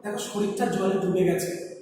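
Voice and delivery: faltering soft voice, slowing down; the ant gasping out words as it sinks; frightened ant, barely getting the words out; halting half-voice. A narrator's reading. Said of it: "মানে আধো আধো গলায় বলছে, পুরোপুরিভাবে বলতে পারছে না".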